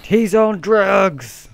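slow, loud, high squeaky voice; high-pitched voice. Pretend. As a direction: drag it out in a squeaky voice. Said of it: "the high-pitched voice for them".

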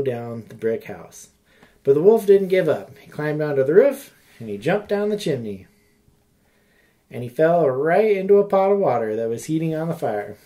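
put-on storytime reading to children; story narration. A narrator's reading. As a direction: tell it like a bedtime story. Reads a fairy tale aloud.

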